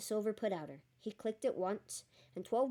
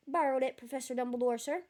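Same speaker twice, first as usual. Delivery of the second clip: booming giant voice; gruff giant; 4 semitones higher, 4 dB louder than usual. Acted. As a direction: play the big friendly giant. Hagrid's voice in story.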